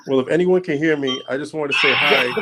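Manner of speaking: glitchy call audio dropping out; words chopped by a bad connection; radio breaking up. Real, not acted. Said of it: "You're very choppy".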